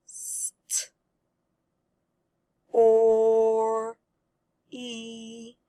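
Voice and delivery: "St-, or, e" one sound at a time, long pauses between; sounded out in parts. Shown as a demonstration. Teacher helps readers put a word together, sounding out "St-, or, e" slowly. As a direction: stretch each piece of story separately: St-, or, e. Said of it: "Let's put it together".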